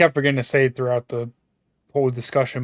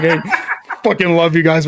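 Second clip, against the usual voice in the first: laughing; 4 semitones higher, 3 dB louder than usual. Retold or imitated. Mock cursing the writers, laughing.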